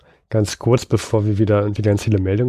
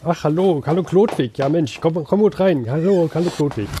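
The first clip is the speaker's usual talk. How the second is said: higher, chatty sketch voice; Harald character; 5 semitones higher than usual. Acted. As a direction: play a fussy busy man greeting a friend. (höher gestellte Sketchstimme als Harald)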